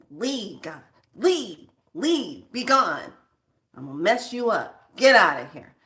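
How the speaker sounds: punched one-word orders, firm and separate; forceful command. Acted. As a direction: order them out, each word driven home. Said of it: "You're saying words very forcefully".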